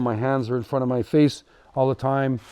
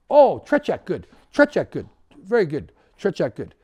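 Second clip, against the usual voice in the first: mock Russian accent, higher and pleased; approving Russian captain; 5 semitones higher than usual. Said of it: "he's like".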